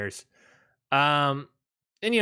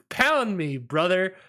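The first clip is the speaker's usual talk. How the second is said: mock Rollins taunt; 5 semitones higher than usual. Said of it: "And he's like".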